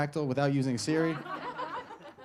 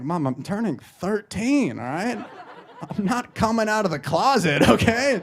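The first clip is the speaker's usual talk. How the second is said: slow start, rising to a louder protest; mock exasperated son; 4 semitones higher, 3 dB louder, slower than usual. Teenage son protesting mom's card, mock exasperated. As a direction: push back in comic embarrassment, building.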